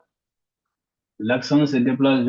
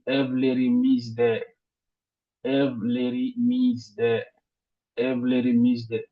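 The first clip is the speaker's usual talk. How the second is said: teacher's demo, stress landing on final "D"; stress on last syllable. Shown as a demonstration. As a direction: have les remises D, with the final "D" stressed. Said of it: "l'accent se déplace vers maintenant le dernier".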